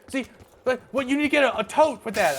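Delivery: high, loud mock scream of a coworker. Coworker screaming at forklift driver, high loud mock yell. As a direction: screech it like she's yelling down at you. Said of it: "Erica was screaming at me".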